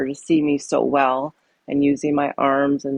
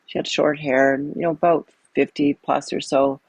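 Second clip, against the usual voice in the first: ordinary delivery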